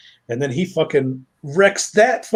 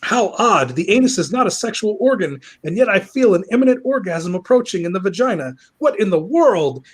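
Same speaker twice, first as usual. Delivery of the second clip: high, theatrical puzzlement; mock bafflement; 5 semitones higher than usual. Villain baffled by the flesh vessel, mock puzzled. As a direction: ponder aloud like a hammy villain.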